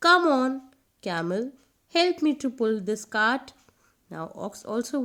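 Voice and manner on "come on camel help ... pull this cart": coaxing ox. A narrator's reading. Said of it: "the ox came to him and said".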